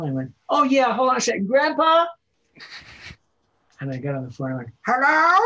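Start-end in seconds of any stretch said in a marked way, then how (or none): 0.5-2.1 high, loud yell for grandpa; kid calling grandpa. Pretend. Pretending grandson calls Grandpa. 4.9-5.4 put-on old grandpa voice. Now playing the grandpa.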